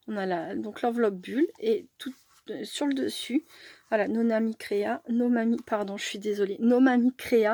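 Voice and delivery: talking with a blocked nose; nasal, congested voice from a cold; stuffy nose. Real, not acted. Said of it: "je parle avec le nez bouché".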